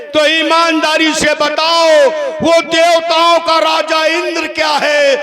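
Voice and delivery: theatrical demon-king indignation; challenging Ravan. Acted. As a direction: fling the accusation back at the crowd. Stage Ravan challenges his accusers.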